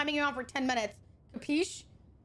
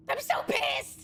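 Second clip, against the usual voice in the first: whispered fury; 9 semitones higher, slower than usual. Real, not acted. Frustrated at purchase.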